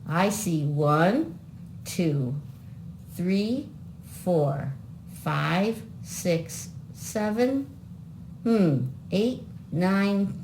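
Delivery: put-on slow counting for children; kids show host. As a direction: count it out for little viewers.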